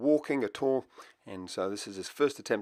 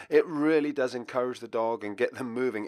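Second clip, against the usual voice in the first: normal talking voice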